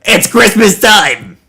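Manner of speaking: slow, drawn-out imitation yell; mock yell. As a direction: echo a screamed line, half-strength. Streamer echoes narrator's scream.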